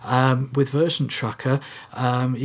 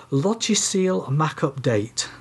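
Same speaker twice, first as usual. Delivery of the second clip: French accent; 2 semitones higher, slower than usual. Shown as a demonstration. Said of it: "my best French accent".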